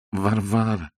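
drawn-out nasal call; nasal Lokhankin. A narrator's reading. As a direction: say it through the nose. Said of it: "сказал Лоханкин в нос". (в нос, протяжно)

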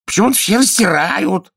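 high, loud capricious king; whiny king. A narrator's reading. King inspecting the healer's knees and teeth, high and loud. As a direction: play a petty tyrant poking at his healer. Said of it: "брюзгливо сказал король".

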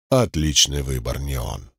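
low rustling demon voice; demonic whisper. A narrator's reading. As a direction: breathe it like a demon inside his head. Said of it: "прошелестел в голове голос демона".

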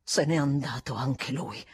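low, slow, held-back admission; reluctant outburst. A narrator's reading. Housekeeper finally answers after long delay, low and reluctant. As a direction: let it out heavily at last. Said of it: "sbottò alla fine".

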